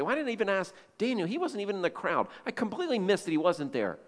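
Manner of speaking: tag. Retold or imitated. King pacing, berating himself.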